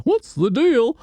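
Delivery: high standup whine on "What's the deal?"; mock standup comic. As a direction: do a squeaky Seinfeld-style bit. Grinch comedian impression.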